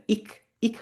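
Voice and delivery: "ইক", "ইখ" with hard back endings; mistaken k, kh endings. Shown as a demonstration. Teacher warning against mistakes, "ইক", "ইখ" with back endings. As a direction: end "ইক" on k, "ইখ" on kh. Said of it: "বলা যাবে না এটাকে".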